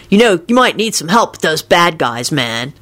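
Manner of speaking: lightly voiced knowing dude. A narrator's reading. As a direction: advise him knowingly. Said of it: "he told George knowingly".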